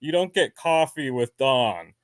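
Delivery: Colorado vowels, cahfee with Don; Colorado pronunciation in contrast; Colorado accent. Shown as a demonstration. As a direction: imitate flattened Colorado ah vowels. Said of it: "it's pronounced Dawn".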